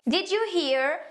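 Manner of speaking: slow, clearly separated English phrases; careful example reading. Shown as a demonstration. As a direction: read it out slowly so learners can follow. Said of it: "ler aqui pra vocês entenderem melhor". (leitura lenta e pausada em inglês)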